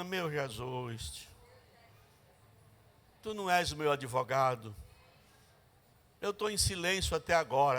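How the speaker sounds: low, soft murmured prayer; quiet prayer. Retold or imitated. Sister praying quietly inside, hushed and low. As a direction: pray it softly to herself.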